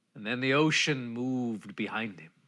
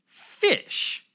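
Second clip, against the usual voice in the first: a sharp high startled yelp of a word. Acted. Charlie to the sea serpent, high startled disbelief. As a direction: jump at the word fish.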